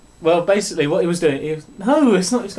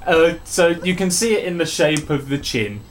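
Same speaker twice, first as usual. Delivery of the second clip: best man speech. Pretend. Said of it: "in the style of a best man speech".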